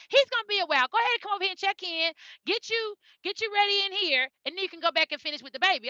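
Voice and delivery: a hint of a chipper phone receptionist; kind helper lady.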